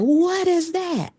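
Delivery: high, drawn-out disbelief; astonished reaction. Retold or imitated. Imitating app listeners hearing the AI voice, high astonishment. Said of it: "And they were like".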